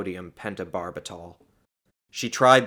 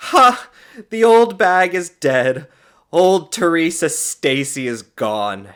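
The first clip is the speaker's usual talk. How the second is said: loud, slow, high gloating; sarcastic laughing; 9 semitones higher, 12 dB louder, slower than usual. A narrator's reading. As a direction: crow it with a scornful "Ha". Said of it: "she laughed sarcastically".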